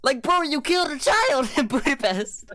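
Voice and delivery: exasperated at the character, voice climbing; incredulous. Real, not acted. Ranting to his friend about the film, incredulous.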